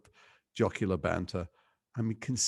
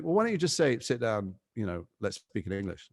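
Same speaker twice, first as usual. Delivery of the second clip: mock pleading. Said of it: "it'd be like".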